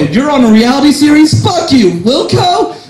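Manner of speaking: high, hammed-up cheeky taunt; teasing a reality star, high and hammed-up; mock outburst. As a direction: fling it at her like a heckle.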